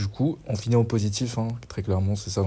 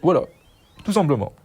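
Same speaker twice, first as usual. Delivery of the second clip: loud; 7 semitones higher, 5 dB louder, faster than usual. Real, not acted. Repeats phrase, then louder.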